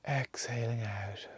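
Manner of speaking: whispered out on the exhale. Acted. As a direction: let the word ride out on a whisper. Breath cue during meditation.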